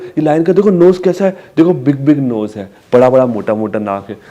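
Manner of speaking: lively sing-song naming; talking to a toddler. Shown as a demonstration. Parent describing the lion's nose to a toddler, sing-song. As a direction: make the big nose sound big. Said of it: "फिर आप दिखा रहे हो".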